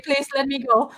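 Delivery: whiny playful fake sob; mock crying. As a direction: beg to leave, half crying. Joking plea to end the stream.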